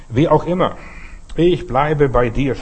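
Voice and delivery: preaching. Acted. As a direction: declaim the promise slowly and firmly. Preacher declaims the Lord's words.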